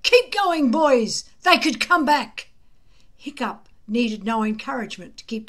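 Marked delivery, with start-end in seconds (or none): 0.0-2.5 gruff call. A narrator's reading. Gobber urging boys onward.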